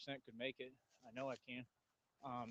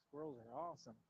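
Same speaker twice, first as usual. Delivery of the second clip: delighted squirrel gushing; 11 semitones higher, 5 dB quieter than usual. Real, not acted.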